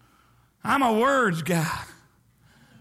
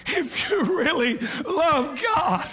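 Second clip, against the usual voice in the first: fervent shout; 4 semitones higher, slower than usual. Shown as a demonstration. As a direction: cry it out with passion.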